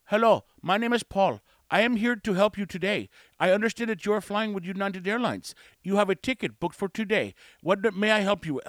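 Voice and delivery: lightly mocking formal agent spiel; a hint of stiff customer-service script; scripted call-center greeting. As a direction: recite every word of an overlong greeting. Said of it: "We don't need to say things like".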